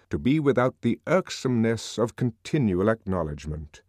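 measured, emphatic reading from a religious book; solemn passage read aloud. A narrator's reading. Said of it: "began to read".

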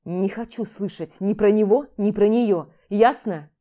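loud, hard warning; angry. Acted. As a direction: cut her off for good. Max angrily refuses to hear more. (громко и жёстко, с угрозой)

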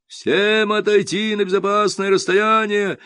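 slow, high megaphone command; police ordering the crowd back, megaphone; through a megaphone. A narrator's reading. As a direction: bark it through a loudhailer. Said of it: "усиленный рупором".

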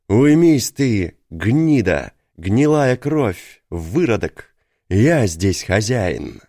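slow, loud barked command; barking shout. A narrator's reading. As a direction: roar it out slowly, full force. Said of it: "гаркнул".

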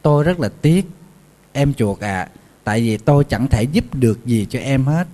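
sympathetic pig. Acted. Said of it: "ảnh thông cảm hơn".

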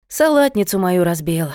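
plain reading voice

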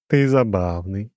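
high, slow, chiming demon voice; lofty demon with a glassy ring; crystal ringing voice. A narrator's reading. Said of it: "своим хрустальным голосом". (высокий звенящий хрустальный голос демона)

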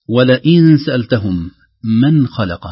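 "ولئن" slow, with a hidden nun; slow recitation. Shown as a demonstration. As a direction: read "ولئن سألتهم" deliberately. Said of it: "نلاحظ". (تلاوة مرتلة)

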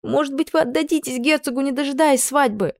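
one high gulp of nerve, words tumbling; blurted out. A narrator's reading. Maid suggests her lady give herself to the duke, high blurt. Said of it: "вдохнула побольше воздуха и выпалила".

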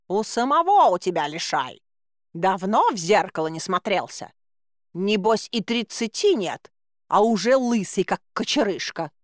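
offended cat voice snapping back at the guard; cat trading insults, lightly voiced; indignant talking cat. Cat to the guard, insulted, hitting back in his cat voice. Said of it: "возмутился кот".

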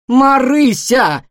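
loud, drawn-out cry; shouted name. A narrator's reading. Nora shouting at the clumsy guinea pig, loudly. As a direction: yell her name in alarm. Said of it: "закричала Нора".

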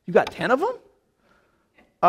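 slow, drawn-out disbelief; incredulous. Pretend. Speaker imagining himself facing ten thirsty camels, incredulous. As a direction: stall at the thought of ten camels. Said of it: "if I would have said".

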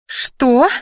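high, indignant squeal; shrieked. A narrator's reading. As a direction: squeal it in outraged disbelief. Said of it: "взвизгнула красноволосая". (возмущённо взвизгнуть)

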